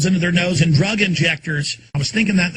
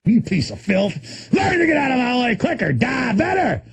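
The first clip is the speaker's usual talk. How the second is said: menacing threat; 6 semitones higher than usual. Acted. Ranting threat at imagined enemy.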